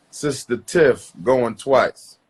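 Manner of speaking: slow, drawn-out auctioneer call, second round. Acted. Host calling Sister Tiff again, slow auctioneer call. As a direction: stretch the name out, then going twice.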